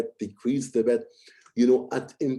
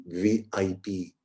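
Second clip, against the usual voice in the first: lower, slow, from the throat; amplified throat voice; 4 semitones lower, slower than usual. Shown as a demonstration. Coach contrasting mouth and throat, amplified take. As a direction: speak it from the throat with confidence. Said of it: "it sounds amplified".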